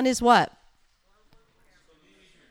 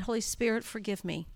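humble prayer; 6 dB quieter than usual. Retold or imitated. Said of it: "And I literally said".

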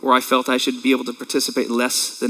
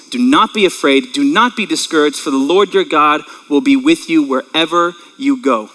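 scripture reading. Acted. Pastor reading Joshua to the congregation, measured and solemn. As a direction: read the verse with weight.

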